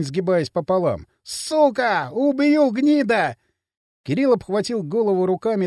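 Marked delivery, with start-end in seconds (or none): 1.2-3.4 enraged threat, pitched high; furious yell. A narrator's reading. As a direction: snarl it out in rage. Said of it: "заорал Поршень". (яростный крик)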